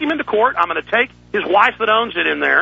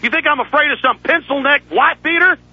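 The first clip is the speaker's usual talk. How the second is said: furious rant; 4 semitones higher than usual. Real, not acted. Host yelling down a rival he calls a coward, furious. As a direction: tear into the rival like you mean it.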